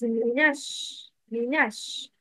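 Minash slow and linked straight into the sh; silent lam. Shown as a demonstration. Teacher models for students, Minash slowly with the lam dropped. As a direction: say Minash with no l before the sh. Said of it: "Lam Shamsiya isn't pronounced".

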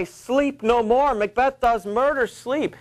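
high, slow ghostly call; eerie voice crying. Acted. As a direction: cry it like a haunting voice in the night. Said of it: "methought I heard a voice cry".

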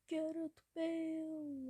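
slow, stretched call of the name; drawn-out call. Real, not acted. Gamer urging his winger on, drawn out. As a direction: stretch the name out hoping for a goal. Calling player name twice.

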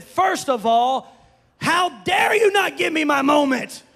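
high, loud mock-outraged shout; mad. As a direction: retell a husband's indignant outburst, slow windup. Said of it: "I was mad".

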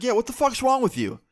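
high, loud furious snap; angry mom. Retold or imitated. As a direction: mom lashing out at the stranger. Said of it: "my mom chimes in".

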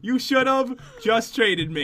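slow, deliberate "You should have just traded me"; teasing, drawn-out repeat for emphasis; slow reproach. Real, not acted. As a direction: spell out the told-you-so word by word.

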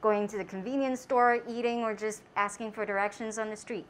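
muffled behind mask; speaking with covered mouth; through a face mask. Real, not acted. Seen 1: White mask covers mouth and nose throughout her speech.

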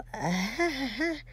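half-hearted "ha ha" at a bad joke; awkward mock laugh. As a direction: fake a polite, uncomfortable laugh. Imitates friends' awkward reaction to joke.

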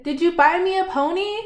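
quick, high, eager question; excited shout. Acted. Boy asks his father about the pony, excited. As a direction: rush it out, hoping for a pony. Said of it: "he shouted".

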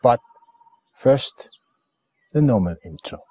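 deliberate, halting show announcement; programme announcer. Acted. Greeting friends at the start of Dhamma on Air, programme announcer. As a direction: announce each phrase separately, with swooping emphasis.

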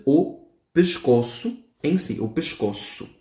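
"pescoço" slowly, S as SH; model word. Shown as a demonstration. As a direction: say "pescoço" as pishkosu. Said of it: "la S suena como una S H".

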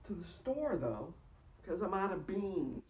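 loud, drifting stoned ramble; stoner. Real, not acted. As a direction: ramble like you're high. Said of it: "I'm high right now".

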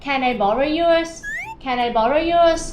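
slow, stressing "yours" a little; slow model sentence. Shown as a demonstration. Teacher models borrowing a pen, slowly. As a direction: say it slowly for learners. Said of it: "Oh I left my pen at home".

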